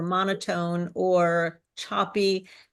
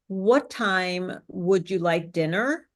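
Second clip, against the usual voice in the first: slow question with "dinner" swinging upward, less confident; rising, unsure ending; slower than usual. Shown as a demonstration. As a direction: lift the pitch up on "dinner". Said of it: "If you rise your tone at the end".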